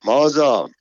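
sudden high, loud cry of alarm; anxious cry. Acted. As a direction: cry out in panic, rushing in.

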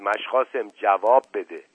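understated shout at the servant; shouting over him. Acted. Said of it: "فریاد زد".

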